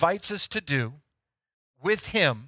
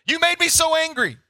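higher, louder whiny blame; mock angry excuse; 10 semitones higher, 5 dB louder than usual. Pastor imitating someone blaming others, mock indignant. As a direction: throw the blame at them, petulant. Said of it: "You heard that?".

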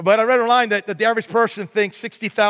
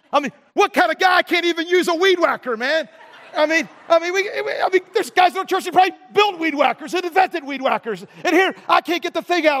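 laughing at himself; 8 semitones higher than usual. Real, not acted.

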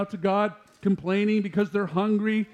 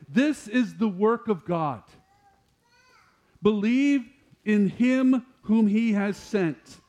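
slow solemn quote; 4 semitones higher, 3 dB louder, slower than usual. Acted. Preacher slowly quoting Jesus.

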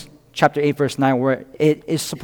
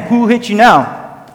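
slow, higher-pitched mock taunt; 5 semitones higher than usual. Soldiers taunting Jesus after a blow, mocking. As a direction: draw out the imitated jeer. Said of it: "They will even mock him".

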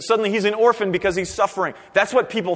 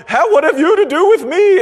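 high, loud shrieking demon cry; screaming demon; 11 semitones higher, 10 dB louder than usual. Retold or imitated. Preacher voicing screaming demons, high loud shriek. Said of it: "demons are screaming and going".

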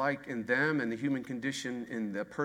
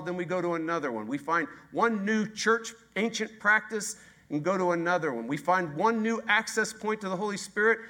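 higher, louder and faster with each restless round; building intensity; 5 semitones higher, 4 dB louder than usual. Real, not acted. Preacher ramping up to the congregation, rising and quick. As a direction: pile up the list, rising in frustration. Building rant on endless techniques.

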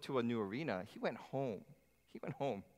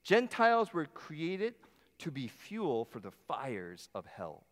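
scornful saying; slower than usual. Retold or imitated. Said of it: "this was a common phrase".

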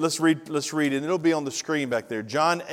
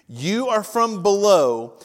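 slow emphatic; 5 semitones higher, 8 dB louder, much slower than usual. Acted. Jesus' words read emphatically.

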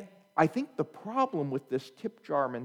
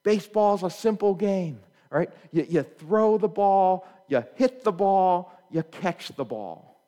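mock coach yell; 3 semitones higher, 3 dB louder than usual. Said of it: "he just yells at them".

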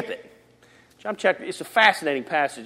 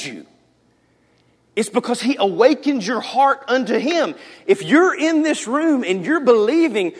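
raised, emphatic pulpit delivery; full-force preaching; 5 semitones higher, 5 dB louder than usual. Real, not acted. Preacher tells believers God drew them, fervent and forceful. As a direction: drive each point home, pausing between bursts.

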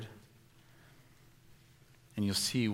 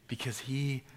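whisper; 4 semitones higher, slower than usual. Acted. Tender close of the sermon.

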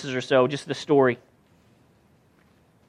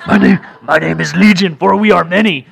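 hammed-up possessed-man voice, lower and loud; mock-scary demonic voice; horror-movie demon; 3 semitones lower, 4 dB louder than usual. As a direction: play a movie demon for laughs. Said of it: "like, horror movie".

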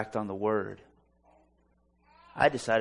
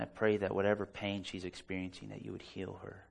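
quiet prayer; 3 semitones lower, 6 dB quieter than usual. Retold or imitated. Retold prayer over the woman.

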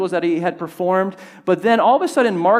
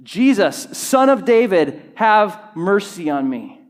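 reading a shout; 3 semitones higher, 3 dB louder than usual. Acted. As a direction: call out the plea across a crowd. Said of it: "he began to shout".

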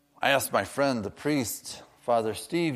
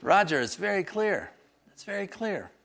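high-pitched imitation of a friend's Nigerian accent; attempted Nigerian accent; 9 semitones higher than usual. Nigerian priest friend answering the preacher, in a loosely attempted high accent. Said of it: "I can't do his accent".

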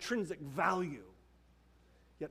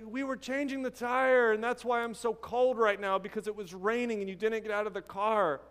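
imitating an angry husband; 3 semitones higher than usual. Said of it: "he's angry with his wife".

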